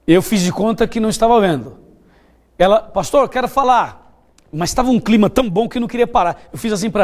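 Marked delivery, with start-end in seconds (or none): 2.8-4.2 slightly higher, drawn-out plea; retold insistent interruption. A girl interrupting the pastor mid-sermon, retold insistence. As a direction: imitate a girl insistently asking to speak.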